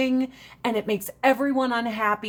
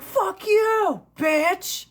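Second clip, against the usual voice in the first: high, sassy clapback, imitated; sassy comeback; 9 semitones higher, much slower than usual. Gay friend snaps back at the insult, high and sassy. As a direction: toss it back with attitude. Gay person's retort in story.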